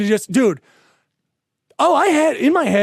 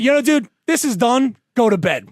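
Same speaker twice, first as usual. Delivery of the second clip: retold firm order; 4 semitones higher than usual. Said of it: "I went".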